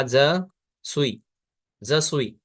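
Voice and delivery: ज सुई with the s silent, soo-ee; teacher models ज सुई, no final s; say je suis right. Shown as a demonstration. French lesson teacher modeling ज सुई with a silent s. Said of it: "सुईज नहीं बोलना".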